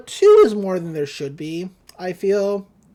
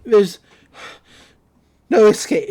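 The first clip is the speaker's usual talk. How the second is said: mock menace; 8 dB louder than usual. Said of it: "Buzz is like".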